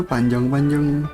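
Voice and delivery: usual speaking voice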